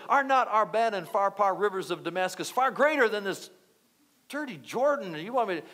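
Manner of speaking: mild mock indignation; wrathful Naaman. Soldier scorns the river he was told to wash in, mildly acted wrath. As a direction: retell a proud man's scornful protest, lightly acted. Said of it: "he was wroth. And he said".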